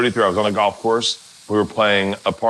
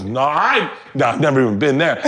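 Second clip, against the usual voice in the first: Boston dude impression; 4 semitones higher than usual. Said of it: "He goes".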